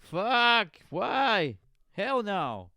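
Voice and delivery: loud, high retold outburst; mock outraged yell. Imitating a friend rejecting the podcast idea, outraged yell. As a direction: yell each word as an exaggerated refusal.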